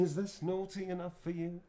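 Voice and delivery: a light flirty Nick voice; Nick Lightbearer line. Acted. Actor repeats Nick's pickup line for chat, cheeky. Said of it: "Nick would say".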